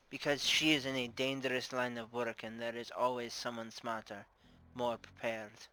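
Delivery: put-on measured Russian-accented warning. Bar owner explaining her fear to the investigator, Russian accent. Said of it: "I'm doing a Russian accent".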